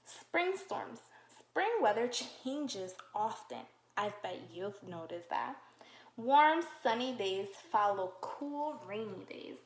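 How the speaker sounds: slow, clear read-aloud for little ones; reading to children. Acted. Teacher reading a spring book to kids, slow storybook voice. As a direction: read each page slowly to the class.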